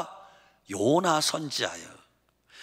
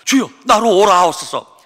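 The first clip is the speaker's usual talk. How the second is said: louder, pleading call across the water; eager call; 4 semitones higher, 9 dB louder than usual. Acted. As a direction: call out eagerly to your master. Peter calling to Jesus.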